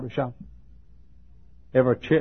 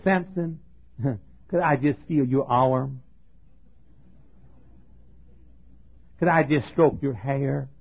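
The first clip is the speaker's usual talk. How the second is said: flirty southern Delilah; 2 semitones higher than usual. Retold or imitated. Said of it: "she had a southern accent".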